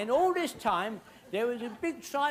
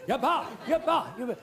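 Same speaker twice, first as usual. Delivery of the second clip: tribal cry; 4 semitones higher than usual. Retold or imitated. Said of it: "that lot, they shout".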